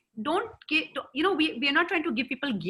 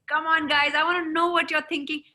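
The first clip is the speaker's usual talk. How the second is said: escalated passion; 4 semitones higher, 3 dB louder than usual. Shown as a demonstration. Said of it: "escalated passion".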